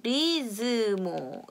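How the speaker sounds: "turismo" slow, s between s and z; Portuguese turismo. Shown as a demonstration. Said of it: "이렇게 되는 거예요".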